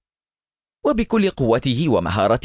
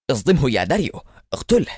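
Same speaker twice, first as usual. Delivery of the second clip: yelling; 3 semitones higher than usual. Acted. Eliezer urging his driver to ram Adham, yelling. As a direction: order that jumps much higher on اقتله. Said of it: "فصرخ إليعازر".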